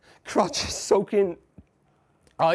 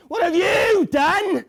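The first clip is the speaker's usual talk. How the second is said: high, loud, drawn-out cry of "What have you done"; slow anguished scream; 13 semitones higher, 7 dB louder, slower than usual. Acted. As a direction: drag the words out in agony. Accusing scream.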